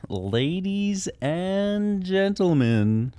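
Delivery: drawn-out spooky showman welcome; horror host. Pretend. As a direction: greet them like a creepy crypt keeper. Spooky showman opening greeting.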